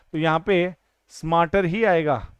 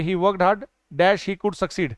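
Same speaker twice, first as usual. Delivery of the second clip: 1 slow example read; much slower than usual. Shown as a demonstration. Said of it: "could हमेशा past को दर्शाएगा".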